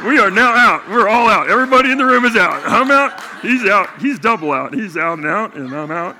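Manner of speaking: high, loud, laughing proclamation; a joyful laughing yell that everyone is out; jubilant shout. Retold or imitated. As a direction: shout it out to the whole room, delighted. Retold exuberant announcement to room.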